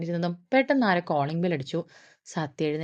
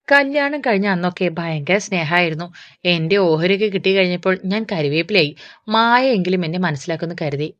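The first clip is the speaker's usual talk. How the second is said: louder, aggrieved lament; lamenting mother; 5 dB louder than usual. Acted. Mother tells her old friend her woes in a louder lament. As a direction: pour out her grievance, louder.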